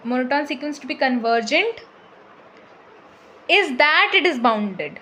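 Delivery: drawn out, word by word for notes; very slow dictation pace. Shown as a demonstration. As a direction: dictate it slowly so they can write. Teacher dictating theorem slowly.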